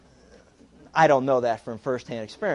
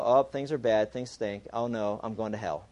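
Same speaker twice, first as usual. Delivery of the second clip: mock gloom; 4 semitones lower than usual. Believer when things go bad.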